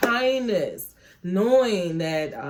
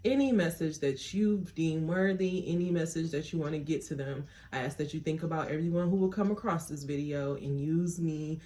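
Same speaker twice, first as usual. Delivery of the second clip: prayer; 2 semitones lower, 5 dB quieter than usual. Acted. Tarot reader praying to God before the reading, softly. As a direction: pray quietly, opening yourself up.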